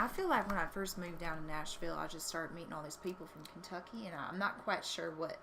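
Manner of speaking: lightly put-on Southern US accent. Shown as a demonstration. Newcomer to Nashville showing her picked-up speech, Southern accent. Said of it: "this is, like, my Southern kind of accent".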